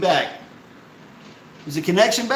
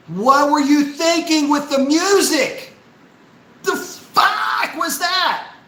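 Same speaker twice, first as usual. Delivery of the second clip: slow, high, outraged disbelief; exasperated rant; 7 semitones higher, slower than usual. Real, not acted. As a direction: demand what they were thinking. Ranting at marketing department.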